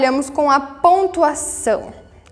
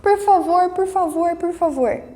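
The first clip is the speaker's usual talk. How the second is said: pleading; 2 semitones higher than usual. Shown as a demonstration. Teacher demos a child begging parents, mild pleading. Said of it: "Súplica".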